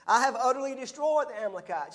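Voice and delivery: a sermon mocking Saul's boast with a laugh. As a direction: laugh at his empty claim. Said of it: "talking out of both sides of his mouth".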